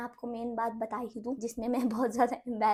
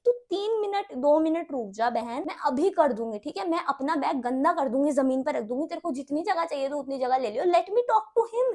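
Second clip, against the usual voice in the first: patient pleading; 2 semitones higher than usual. Retold or imitated. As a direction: plead patiently, stretching the final English line. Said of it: "मैंने उसे तीन चार बार बहुत patiently बोला".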